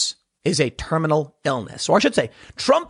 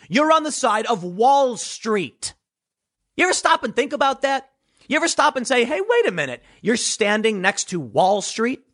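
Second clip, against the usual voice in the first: high, incredulous mock voice; 5 semitones higher than usual. Political commentator mocking leftists, high incredulous voice. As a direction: play the baffled activist asking himself. Mocking the resistance's self-questioning.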